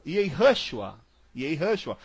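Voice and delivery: YEHUSHUA as yay-HUH-shua; English-style Yehushua, middle syllable 'huh'; American U sound. Shown as a demonstration. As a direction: say Yehushua with U turned to 'uh'. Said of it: "o U dá som de A".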